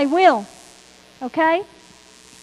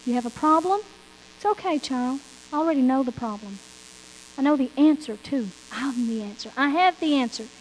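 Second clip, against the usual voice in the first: God reassuring; 3 semitones lower than usual. Retold or imitated. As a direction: gently reassure a worried child. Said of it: "God says to you".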